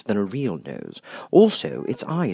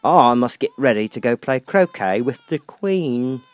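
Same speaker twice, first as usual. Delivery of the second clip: put-on louder brusque old duchess; 2 semitones higher, 6 dB louder than usual. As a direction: fling the baby at her gruffly.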